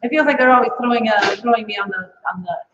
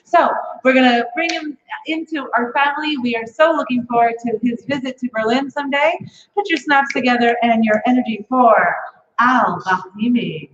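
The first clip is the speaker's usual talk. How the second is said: emcee introduction; 2 semitones higher than usual. Acted. Host introducing the next comic to the audience, announcer voice. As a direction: hype the next act to the crowd.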